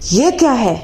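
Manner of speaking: scolding mother-in-law, a touch of anger; sharp complaint to her daughter-in-law, quickening at the end; mother-in-law angrily scolding her daughter-in-law over breakfast; angry. Acted. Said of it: "गुस्से से कहती है".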